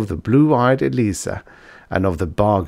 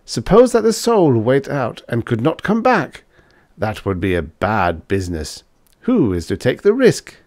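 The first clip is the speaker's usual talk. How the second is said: put-on bold young student; 4 semitones higher than usual. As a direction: challenge him, half teasing. Fritz presses the point.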